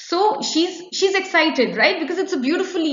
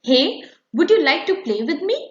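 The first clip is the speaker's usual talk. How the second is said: higher, louder, eager invitation to play; a boy asks his friend to play, lightly voiced; first boy asking; 4 semitones higher, 4 dB louder than usual. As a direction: ask a friend to play, rising at the end. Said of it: "this dialogue here".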